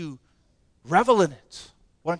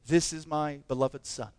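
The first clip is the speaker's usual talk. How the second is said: voice of God; 6 semitones lower, 6 dB quieter than usual. Retold or imitated. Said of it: "distinct emphasis in the voice".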